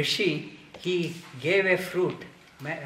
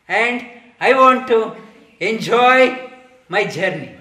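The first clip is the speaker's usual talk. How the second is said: laughing; 3 semitones higher, 8 dB louder than usual. Retold or imitated. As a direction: scoff at the idea of one father. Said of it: "laughingly said".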